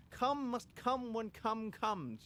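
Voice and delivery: mock solemn.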